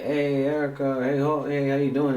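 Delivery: imitating a loud greeting. Customer loudly greeting Erica so everyone hears, mock loud call. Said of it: "he's pretty loud".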